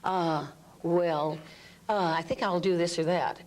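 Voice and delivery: unsure hedging voice; hesitant. Shown as a demonstration. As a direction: waver between choices. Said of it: "liberate the voice".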